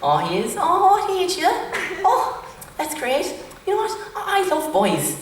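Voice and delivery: high, slow, cooing creepy woman; creepy older woman. Retold or imitated. Fifty-year-old woman fawns over the boy, high slow creepy coo. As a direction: drawl out each word like a leering older lady. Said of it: "And he was".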